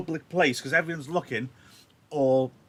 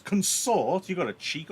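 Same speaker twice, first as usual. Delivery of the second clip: angry; 5 semitones higher than usual. Acted. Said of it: "reacts angrily and says".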